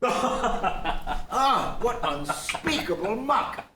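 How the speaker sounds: disgusted after tasting; after bitter medicine. Acted. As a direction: spit out the words in distaste. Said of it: "Take me an hour to get the taste out of my mouth".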